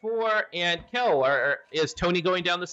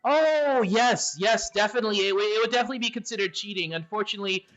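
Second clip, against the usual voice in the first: lightly raised, polite gargoyle voice; 4 semitones higher than usual. Acted. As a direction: answer as the courteous gargoyle. Gargoyle answers about cheating.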